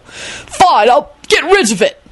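high-pitched exasperated howl; angry howl. Acted. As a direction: howl it angrily, voice climbing. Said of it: "Arthur howled angrily".

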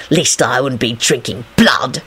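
low, slow, mildly venomous reply; hissed retort. A narrator's reading. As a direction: draw it out low with restrained spite. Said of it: "he hissed back".

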